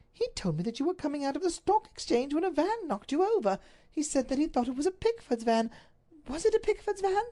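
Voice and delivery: high, urgent retelling; anxious duchess. Acted. Duchess asks the Duke about the van, high and anxious. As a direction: rush to the question that haunts her.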